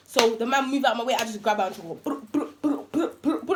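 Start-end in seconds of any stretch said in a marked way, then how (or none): 1.9-3.6 rapid lip-trilled blows, pitched up; imitated scuffle noise. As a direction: make repeated "brr" hit noises. Imitates grabbing and hitting the girl.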